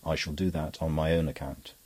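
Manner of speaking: a touch of cold calm. Acted. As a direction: say it flatly, unmoved. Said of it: "in a voice quite cold".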